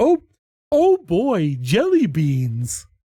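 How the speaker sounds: swooping, sing-song cartoon bunny voice, pitch swinging widely. Showing the voice he used for the bunny, Mad Hatter voice. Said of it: "my Mad Hatter voice".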